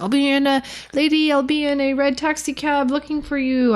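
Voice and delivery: a light mock Spanish accent on the guide's words. Angler quoting her Cuban guide in a light mock Spanish accent. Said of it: "that was me trying to be Spanish".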